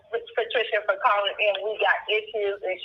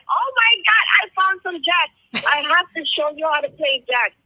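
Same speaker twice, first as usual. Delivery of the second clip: high, thrilled retelling of finding jacks; excited squeal; 6 semitones higher than usual. Retold or imitated. Mother to daughter, finding jacks in the store, squealing with delight. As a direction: bubble over with childlike delight. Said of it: "why are you screaming".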